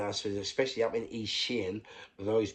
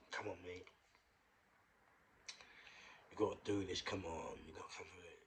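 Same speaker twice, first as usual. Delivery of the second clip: hushed bedside urging, much softer; retold whispering; 3 semitones lower, 14 dB quieter than usual. Talking to an unconscious patient at night, retold whisper. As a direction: urge him on under your breath.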